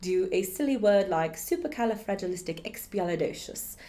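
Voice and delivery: lightly put-on posh British; posh British accent. Shown as a demonstration. Teacher trying a silly long word, posh British accent. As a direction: lift it into a high-society British accent. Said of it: "bring it up into the accent".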